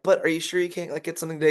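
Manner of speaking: high, timid mock plea; a meek rep asking weakly; wimpy self. Young rep timidly pushing the customer, mock wimpy and high. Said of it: "I was kinda wimpy".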